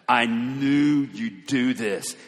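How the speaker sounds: slow, angry accusation; mad Jonah. Acted. Angry Jonah accusing God of showing mercy, slow and indignant. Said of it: "He was mad".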